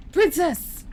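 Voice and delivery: high, alarmed mock scream; hammed-up knightly yell; screamed "Princess". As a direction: cry out for the princess, high-pitched. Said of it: "He's always screaming".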